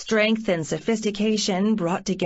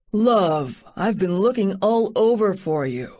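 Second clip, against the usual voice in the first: calling out; 3 dB louder than usual. Acted. Rescuer calls out across train.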